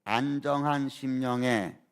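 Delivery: slow, measured phrases for others to repeat; deliberate recitation to be echoed back; lead-in for repetition. Shown as a demonstration. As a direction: lead the congregation through it slowly, pausing between phrases. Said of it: "한번 따라해 보겠습니다".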